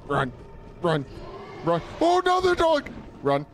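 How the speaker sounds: urgent shouts to run; yelling while running away. Real, not acted. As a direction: yell run while fleeing. Fleeing dogs, shouting run.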